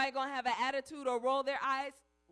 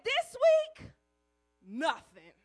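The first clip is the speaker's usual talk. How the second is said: punchline sad sigh; 5 dB louder, slower than usual. Retold or imitated. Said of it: "He said".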